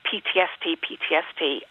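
lightly robotic inner voice, even and mechanical; a hint of a robot repeating it. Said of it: "robotic voice came from inside me saying".

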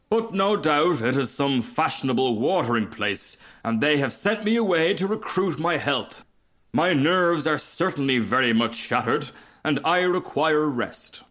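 a touch of grand self-pity; self-important rocket. Acted. Rocket consoling himself in the mud, mildly self-important.

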